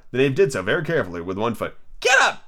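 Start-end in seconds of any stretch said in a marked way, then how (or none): 2.0-2.4 very high royal command; shrill, loud. A narrator's reading. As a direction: shriek the order sharply. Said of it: "in a shrill, loud voice".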